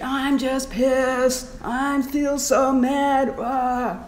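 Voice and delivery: slow, drawn-out grumble of anger; an honest, mild venting; owning the anger. Shown as a demonstration. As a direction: let the anger out slowly. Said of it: "what you want to be thinking".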